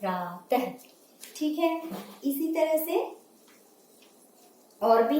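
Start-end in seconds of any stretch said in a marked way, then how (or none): 0.0-0.6 प्रातः with a breathy ह after the vowel; correct visarga. Shown as a demonstration. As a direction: model प्रातः for students. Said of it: "तब हमारा सही शब्द बनेगा".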